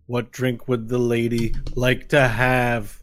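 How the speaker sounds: loud, slow servant voice; deliberate, formal minion at full volume; servile henchman. Acted. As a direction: ask to serve with drawn-out words. Game master voices servant Laszlo.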